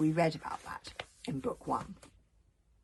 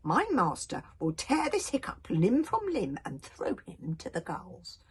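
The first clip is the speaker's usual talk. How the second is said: menacing sea dragon. Acted. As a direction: growl it like a mean little dragon. Seaslug threatening Hiccup.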